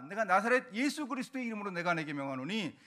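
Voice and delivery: rebuking prayer building to a loud shout; forceful exorcism prayer, swelling at the end; commanding prayer. Shown as a demonstration. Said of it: "이런 긴 기도를 줄인 게".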